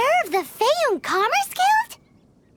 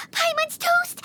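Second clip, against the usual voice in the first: panicked wail; 4 semitones higher than usual. Acted. Panicking about punishment.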